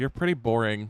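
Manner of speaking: bored, uninterested, dismissive character voice. Voicing a character who dismisses a player after blocking their attack: uninterested character voice. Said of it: "he looks over at you and goes".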